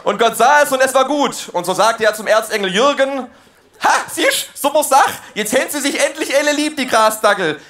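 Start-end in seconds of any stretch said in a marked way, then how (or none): 3.8-7.6 God talking broad Swabian; chatty Swabian dialect; Swabian accent. Acted. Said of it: "Gott war ... auch Schwabe".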